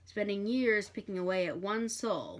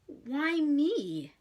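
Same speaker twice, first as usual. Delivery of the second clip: desperate plea; 8 semitones higher, 5 dB louder than usual. Acted. Crowley repeating desperate plea.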